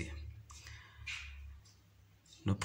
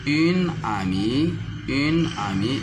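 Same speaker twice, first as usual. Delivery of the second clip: "une" raised and pushed louder before "amie"; stressing une; 4 semitones higher, 3 dB louder than usual. Shown as a demonstration. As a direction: lean on "une" to make the feminine clear. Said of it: "Regardez ici".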